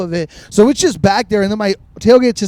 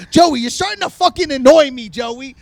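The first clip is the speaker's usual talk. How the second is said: mock annoyed warning, pitched up then dropping on the name; Jess; 3 semitones higher than usual. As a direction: imitate a fed-up friend scolding. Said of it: "Jess is starting to get pissed".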